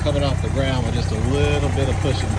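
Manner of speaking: calling out. Real, not acted. Calling out over tractor.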